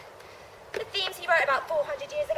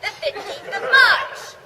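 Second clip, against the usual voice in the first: slow ominous; 5 semitones higher, 5 dB louder, much slower than usual. Acted.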